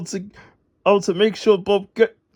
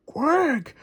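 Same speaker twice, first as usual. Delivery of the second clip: cross duck; 7 semitones higher, 4 dB quieter than usual. Acted. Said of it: "agreed the mother duck crossly".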